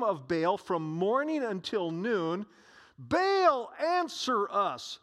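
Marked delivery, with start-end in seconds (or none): 3.0-5.0 shouted plea. Retold or imitated. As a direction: call out to the idol. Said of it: "they shouted".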